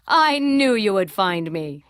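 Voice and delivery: a hint of a booming uncle; big booming uncle voice. A narrator's reading. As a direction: boom it out like a big-hearted uncle. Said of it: "in his big, booming voice".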